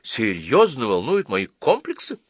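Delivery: mock-incredulous questioning; character voice. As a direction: play the young man, incredulous.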